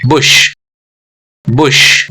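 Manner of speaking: बुश with a brief u and long 'sh'; short vowel. Shown as a demonstration. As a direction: get quickly from b to sh in बुश. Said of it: "short vowel हो गया ये". (बुश में छोटा उ)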